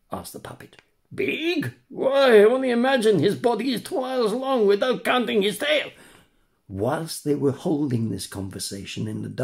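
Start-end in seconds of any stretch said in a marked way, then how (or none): 1.1-5.9 high, far-off voice of a poor swallowed tunny; sad old tunny. Acted. Tunny introduces himself to the puppet, high and mournful. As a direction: play a mournful tunny fish.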